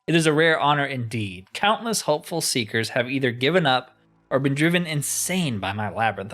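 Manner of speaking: a touch of theatrical pomp; mildly grandiose game-character voice; lightly voiced grand enchanter. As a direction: read it as a self-important old master, lightly.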